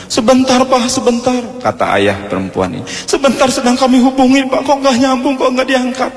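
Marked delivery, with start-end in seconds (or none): 0.1-1.4 high, urgent mock panic; flustered father pleading. Bride's father pleads with officiant. 3.0-6.1 high-pitched acted panic; flustered father. Father cannot reach groom's family.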